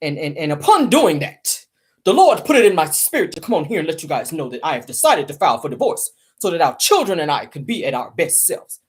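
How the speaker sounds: put-on solemn, sanctimonious announcement; mock face-saving statement. Gossip host mimicking husband's divorce announcement, mock pious. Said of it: "try to save face and say".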